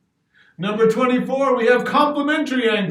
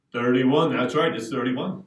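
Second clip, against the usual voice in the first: lower, quieter answer; low reveal; 8 semitones lower, 4 dB quieter than usual. Acted.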